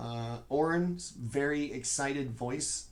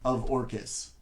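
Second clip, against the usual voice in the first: booming voice; 2 semitones higher, 9 dB louder, faster than usual. Acted. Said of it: "In this booming voice".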